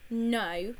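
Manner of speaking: a mild furious no; furiously. Acted. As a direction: snap back, a touch angry. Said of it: "said George furiously".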